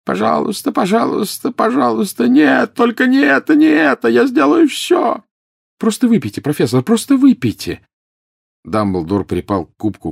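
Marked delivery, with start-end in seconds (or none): 0.0-5.2 very high, loud tormented wail; frantic shrieking in agony; screamed begging. A narrator's reading. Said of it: "и опять закричал". 5.8-7.9 high, forceful, insistent plea; strained raised-voice coaxing; desperate urging. A narrator's reading. Harry urges screaming professor to drink.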